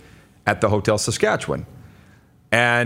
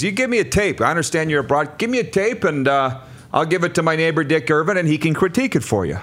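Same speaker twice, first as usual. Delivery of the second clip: put-on Montreal accent; 5 semitones higher than usual. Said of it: "the accent that all the Montrealers do".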